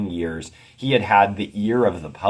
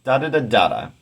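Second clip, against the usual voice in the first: "da-da-da-da-da" chanted DA-da-da DA-da, higher; dactyl and trochee beat; 5 semitones higher, 4 dB louder, faster than usual. Shown as a demonstration. Teacher scanning the opening, dactyl then trochee beat. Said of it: "So dactyl, trochee".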